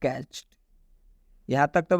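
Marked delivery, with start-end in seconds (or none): 0.0-0.5 कैच्ड softly, with a T ending. Shown as a demonstration. Teacher answers their own question on reading it, कैच्ड with a T ending. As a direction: say कैच्ड as "catcht". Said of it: "डी का उच्चारण ट हो जाएगा".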